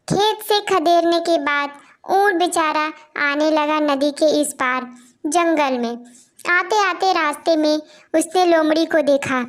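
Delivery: put-on unhurried children's story narration. A narrator's reading. Storyteller telling friends a camel and fox fable, measured narration.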